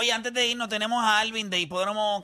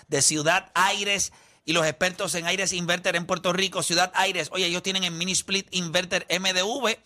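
infomercial. Acted. Host pitches an air conditioner offer.

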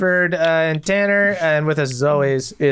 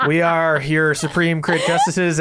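mock grandiose; slower than usual. Grand slow intro.

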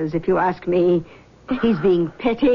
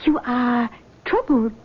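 lightly voiced mystic, higher pitch; seance medium; 6 semitones higher than usual. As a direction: greet them like a gracious clairvoyant. Medium questions girl.

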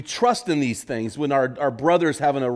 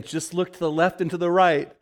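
lightly voiced inner voice, a touch higher; quoted inner voice; 5 semitones higher than usual. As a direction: echo the voice she hears in her head. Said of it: "The voice keeps saying".

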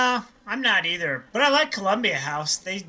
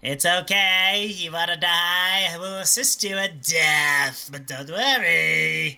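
slow, creepy doctor voice; creepy Kevorkian; slower than usual. Acted. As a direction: coax slowly like a creepy doctor. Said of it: "my teeth on Doctor Kevorkian".

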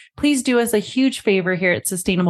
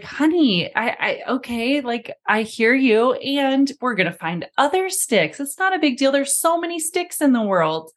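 higher, lightly voiced coaxing mother; soothing mom; 5 semitones higher than usual. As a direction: gently brush off her daughter's worry. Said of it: "Karen went down the road of saying".

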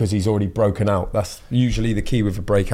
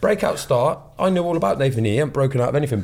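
hint of a West Country local, pitched up; slight West Country voice; 3 semitones higher, faster than usual. Voicing Stoke fans who doubt the nominee, slight West Country voice. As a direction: slip lightly into West Country character. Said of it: "You went slightly more West Country".

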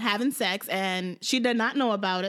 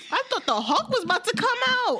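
laughing high; 11 semitones higher than usual. Real, not acted. Laughing while telling.

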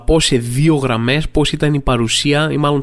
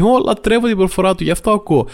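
high-pitched imitation of an admirer; mock gushing fan; 7 semitones higher than usual. Comedian mimicking backhanded compliments on his accent, mock gushing. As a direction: gush in a put-on higher voice. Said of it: "μασκαρέονται σαν θετικά σχόλια".

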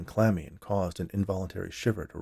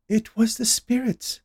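high, slow, knowing announcement; 14 semitones higher, 3 dB louder, slower than usual. A narrator's reading. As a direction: announce it slowly as the all-knowing medium. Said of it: "Esmeralda announced knowingly".

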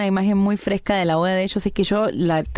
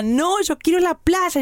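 high, drawn-out imitation of crying pleading; mock tearful protest; 9 semitones higher, slower than usual. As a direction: wail it like an upset bride, playfully imitated. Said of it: "ella lloraba y decía".

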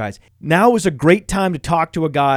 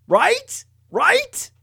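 incredulous right. Real, not acted. Seeking agreement on his pick.

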